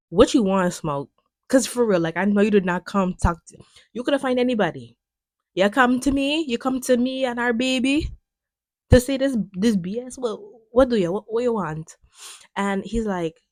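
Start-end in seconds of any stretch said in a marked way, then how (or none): 0.1-12.0 confrontational wife. Retold or imitated. Annie confronting Smoke, retold.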